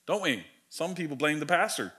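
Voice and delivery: dropping to a muttered aside; suddenly hushed. Real, not acted. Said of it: "that was my inside voice".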